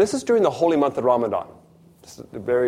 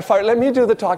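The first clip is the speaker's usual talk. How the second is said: insistent retold plea; 8 semitones higher, 5 dB louder than usual. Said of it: "So I said to Fire".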